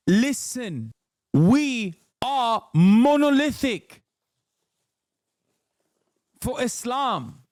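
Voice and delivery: high, very slow mock South Asian London preacher; drawn-out, high South Asian London parody; South Asian London accent. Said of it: "when did you unlock a South Asian London accent?".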